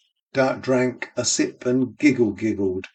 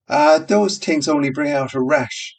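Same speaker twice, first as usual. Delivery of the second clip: barmaid voice; 4 semitones higher, 3 dB louder than usual. Acted.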